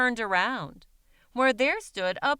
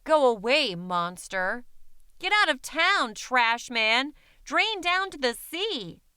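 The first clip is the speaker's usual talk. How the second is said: louder, higher jeering yells; boys shouting; 3 semitones higher, 3 dB louder than usual. Acted. Boys yelling at the trash man to leave town, mild angry shouts. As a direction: chase him off with insults. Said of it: "The boys shouted dirty words".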